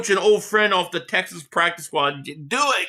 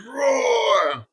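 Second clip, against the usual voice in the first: cheering roar; 3 semitones higher than usual. Pretend. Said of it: "add a roar soundbite".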